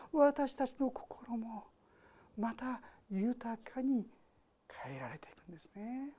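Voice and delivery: slow, near-whispered; sinking into a soft hush. Real, not acted. Preacher softens toward sentence end.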